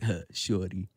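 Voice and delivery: nineties cool guy. Retold or imitated. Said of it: "like some nineties shit".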